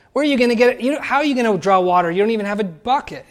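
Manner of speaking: mildly incredulous retold questions; puzzled challenge. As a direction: question it as if it makes no sense. Samaritan woman doubting Jesus, retold.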